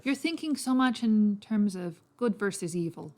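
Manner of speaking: put-on lightly Irish-accented persuader. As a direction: explain patiently with a light Irish lilt. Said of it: "I'm guessing he's more Irish".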